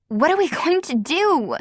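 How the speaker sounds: high frightened cry; Kara screaming. A narrator's reading. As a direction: panic in a girl's voice. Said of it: "Kara screamed".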